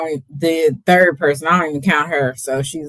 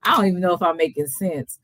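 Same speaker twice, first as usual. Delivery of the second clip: tipsy rambling, giggling. Real, not acted. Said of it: "I'm just a little tipsy".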